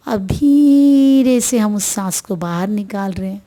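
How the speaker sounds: soothing breathing guide; guided meditation. Acted. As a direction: ease the listener into stillness, one breath at a time.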